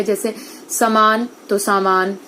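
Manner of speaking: समान short a then सामान long aa; समान vs सामान, vowel length stressed; slow careful samaan, saamaan. Shown as a demonstration. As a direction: set समान against सामान, slowly. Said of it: "आ से संबंधित है".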